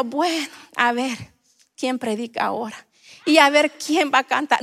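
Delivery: a bored, indifferent churchgoer; mock bored churchgoer. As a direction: shrug it off like you don't care. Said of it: "No entramos diciendo". (imitando con desgano a un feligrés aburrido)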